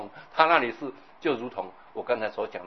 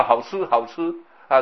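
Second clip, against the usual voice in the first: acted relish; 6 dB louder than usual. Acting out a greedy eater's relish.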